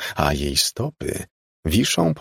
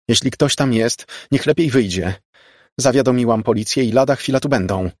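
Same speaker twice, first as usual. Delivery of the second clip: raised, higher warning voice; nervous warning; 5 semitones higher, 3 dB louder than usual. A narrator's reading. Margo warns whoever is hiding in her flat, nervously assertive. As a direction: warn off an intruder.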